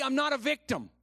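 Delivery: high, loud preacher's lead line; declaration to repeat. Shown as a demonstration. Preacher leading the congregation in a declaration, call to repeat. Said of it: "Now say it like you believe it".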